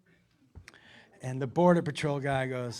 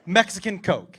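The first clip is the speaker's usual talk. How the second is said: laughing gibberish; 5 semitones higher, 10 dB louder than usual. Retold or imitated. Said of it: "And he goes".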